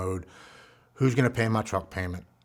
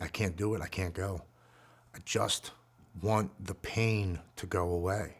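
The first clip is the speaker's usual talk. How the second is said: despairing; 5 dB quieter than usual. Retold or imitated. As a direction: barely get the words out. Suicidal despair.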